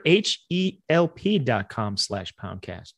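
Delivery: letters spelled slowly one by one; slow, deliberate ad plug spelled out. Shown as a demonstration. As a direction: spell the URL out slowly and clearly. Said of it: "That's better".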